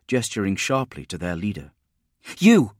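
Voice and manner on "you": high, loud bark; barked command. A narrator's reading. Spinoza to the troopers' leader, barked. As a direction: bark it out to seize attention. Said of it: "she barked".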